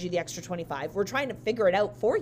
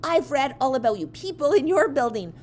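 retold angry rant, higher and louder toward the end; losing it; 4 semitones higher, 4 dB louder than usual. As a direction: imitate a customer working herself up. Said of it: "she starts just losing it".

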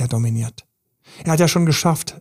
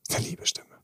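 whisper; 10 dB quieter, much faster than usual. Real, not acted. Coach's hushed confiding aside.

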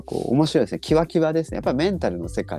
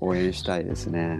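flat monotone reading; deadpan; 4 semitones lower, 3 dB quieter than usual. Pretend. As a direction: say it with no feeling at all. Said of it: "棒読み、超棒読みですけどね".

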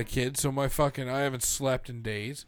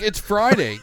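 retold yell; 8 semitones higher, 9 dB louder than usual. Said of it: "I was like".

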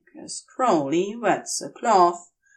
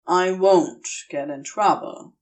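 calm him down; reassuring Crowley; 2 semitones lower than usual. Acted. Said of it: "Crowley reassures him".

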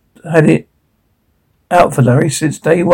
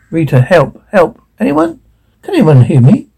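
calling for help. Acted.

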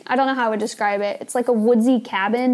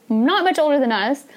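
whisper; 3 semitones higher than usual. Real, not acted. Aside about Neil's age.

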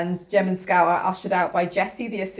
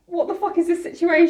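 shocked squeal; 9 semitones higher than usual. Retold or imitated. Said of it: "I was so like".

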